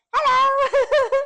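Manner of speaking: high, loud mock British hello; playful imitation of a British accent. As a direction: ham up a posh British Hello. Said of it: "Is that your British accent?".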